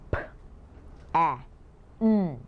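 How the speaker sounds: p, a, n said sound by sound; sounding out words. Shown as a demonstration. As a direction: pause between each sound of pan. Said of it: "segment the sounds".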